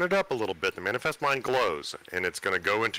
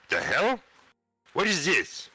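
surprised; 10 semitones higher, slower than usual. Acted. Character finds bag moving.

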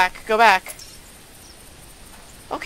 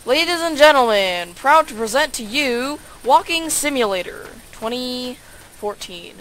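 grand mock presenter; hammed-up showman intro; announcer voice; 2 semitones higher, 4 dB louder than usual.

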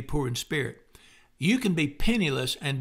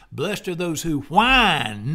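mock whine; 5 dB louder, much slower than usual. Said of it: "they think it reads".

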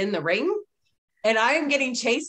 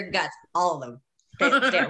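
laughing; 2 semitones lower than usual. Real, not acted. Laughing while echoing.

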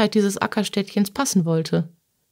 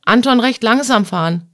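slightly raised, calling to the driver; firm, lightly projected call; called-out order; 4 dB louder than usual. Acted. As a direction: call out an instruction to Anton.

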